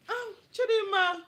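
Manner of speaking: loud, high, drawn-out call. Real, not acted. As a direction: call the name out insistently. Calling someone in the room.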